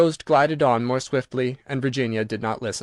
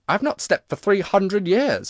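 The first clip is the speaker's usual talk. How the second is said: slow, sorrowful ghost; sadly; 6 semitones higher, slower than usual. A narrator's reading. The ghost telling Virginia he cannot sleep, slow and sad. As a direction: drag it out, weary and sad. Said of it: "he said sadly".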